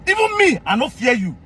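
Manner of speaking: defiant. Real, not acted. Defying the general.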